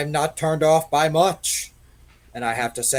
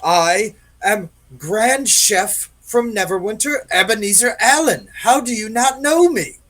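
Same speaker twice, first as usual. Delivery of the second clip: boastful; 5 semitones higher, 4 dB louder than usual. Acted. Chef boasts his fame.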